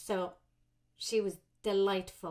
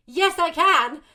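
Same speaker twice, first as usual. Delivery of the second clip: eager yes; 7 semitones higher, 14 dB louder, slower than usual. Retold or imitated. Sudden call, rushing with wet hair.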